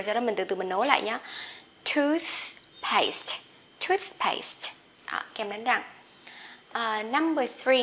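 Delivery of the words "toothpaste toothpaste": toothpaste joined into one smooth word, lighter at the end; linked toothpaste. Shown as a demonstration. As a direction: link tooth and paste together. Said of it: "đọc chậm một chút, rồi ... nối lại".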